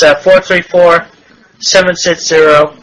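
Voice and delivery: slow, number by number; dictating. Shown as a demonstration. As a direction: read it out slowly for writing down. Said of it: "One more time, please?".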